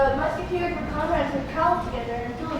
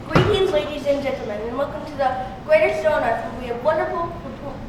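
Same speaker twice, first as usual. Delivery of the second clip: lightly put-on British ringmaster; attempted British accent, measured and formal. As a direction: announce it in a mild classy British accent. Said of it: "I thought I'd do a British accent".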